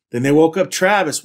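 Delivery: animated picture-book reading; story narration. A narrator's reading. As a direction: read it out to children with lively emphasis. Reads picture book aloud.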